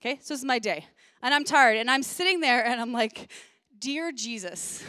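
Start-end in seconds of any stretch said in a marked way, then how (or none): 3.8-4.8 soft, slow exhausted "Dear Jesus"; weary prayer. Retold or imitated. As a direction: breathe it out, worn to the bone. Exhausted sigh after long night.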